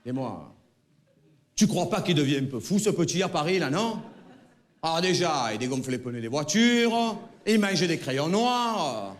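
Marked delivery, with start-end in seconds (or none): 1.6-9.1 lightly voiced fretting mother; a hint of an anxious mum; worried mother. Mother asks father if son is going mad.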